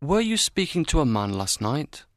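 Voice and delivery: low, kind question; kindly. A narrator's reading. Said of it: "he asked her kindly".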